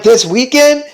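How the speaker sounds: incredulous question with a rising end; surprised echo. Acted. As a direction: echo it back in disbelief. Friends echo the news in disbelief.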